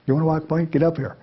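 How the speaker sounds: lightly acted, pushy command; mock sergeant's order. Sergeant on the new point man's back, impatient order.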